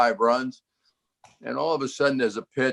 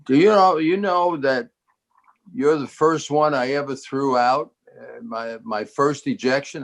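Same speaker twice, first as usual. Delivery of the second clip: eager umpire question; 2 semitones higher than usual. Retold or imitated. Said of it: "he says".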